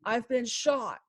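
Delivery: mock frightened cry, slowed; a shot man's panicked yell, lightly done; imitating a terrified friend crying out; retold panicked scream. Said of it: "And he screamed".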